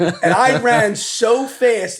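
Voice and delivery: slow, laughing, stretched out. Real, not acted. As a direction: laugh through the words. Laughs recalling the chase.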